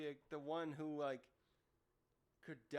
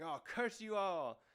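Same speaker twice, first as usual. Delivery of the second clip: louder, higher, drawn-out villain curse; mock angry yell; 4 semitones higher, 5 dB louder, slower than usual. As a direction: curse them all in a hammed-up yell. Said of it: "he's just yelling all kinds of nasty stuff".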